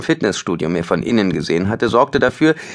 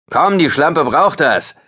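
louder, slow jeering taunt; leering thug; 7 semitones higher, 5 dB louder, slower than usual. Acted. Teen thug invites Ben to join, slow and jeering. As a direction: drag it out with cruel relish.

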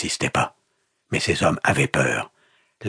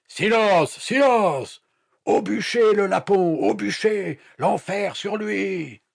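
very high, strained screaming; frenzied cries; slower than usual. A narrator's reading. Villagers calling for the captive's burning, frenzied high cries. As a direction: cry out in a frenzy.

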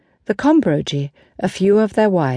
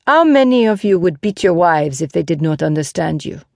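lightly voiced knight chiding the crowd; a hint of stern reproof; Lancelot, reproving. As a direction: confront them with their habits.

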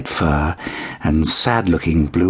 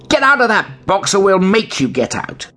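higher, threatening cat voice; menacing cat; 13 semitones higher than usual. A narrator's reading. Big cat threatening the kitten out of the box.

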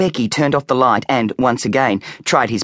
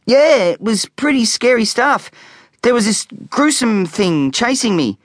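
put-on unconvincing boy; 11 semitones higher than usual. A narrator's reading. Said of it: "trying his best to sound convincing".

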